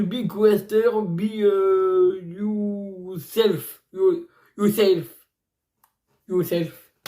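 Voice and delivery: halting attempt at an English accent; French speaker carefully trying English; English pronunciation. Real, not acted. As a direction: sound out the English title, drawing out words. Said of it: "je prononce en anglais".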